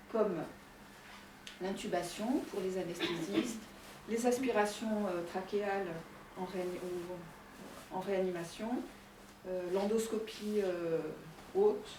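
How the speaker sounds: slightly winded, talking through a face mask; a little out of breath behind a mask. Real, not acted. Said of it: "Je suis un peu essoufflée parce que c'est dur de parler avec le masque".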